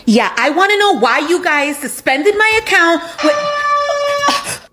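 angry yelling. Acted. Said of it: "you're yelling at me".

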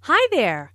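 up on "hi", down on "there"; rise-fall greeting. Acted. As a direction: greet with a lift after "hi", falling on "there". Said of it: "rises after hi and falls".

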